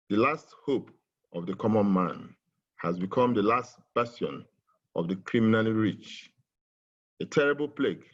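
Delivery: measured recital of a poem; poem reading. Shown as a demonstration. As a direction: read it like a solemn protest poem. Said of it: "which I would like to read".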